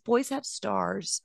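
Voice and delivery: put-on slow, soft little-boy line through a laugh; child's voice, laughing. Son explaining boys have stars, slow and giggly. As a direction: voice the son gently while laughing. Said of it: "And he says".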